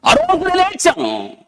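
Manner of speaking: high, slow testimony cry; fervent retelling. Retold or imitated. Preacher retells a woman's testimony of crying, high and slow. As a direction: voice her weeping confession with feeling.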